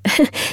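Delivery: soft breathy apologetic chuckle; a small embarrassed laugh under the breath; apologetic little laugh. A narrator's reading. Headmistress's office, teacher laughs apologetically over telegram, soft embarrassed laugh. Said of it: "she gave an apologetic little laugh".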